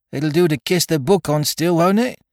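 put-on high, uneasy young pirate voice; lightly voiced worried mutineer; growled question. A narrator's reading. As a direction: ask anxiously, rising at the end. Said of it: "growled Dick".

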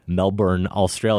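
"Melbourne" with a full "burn" second syllable; the uncorrected "Melbourne, Australia"; old pronunciation. Shown as a demonstration. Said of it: "that's how Sam and I used to say it".

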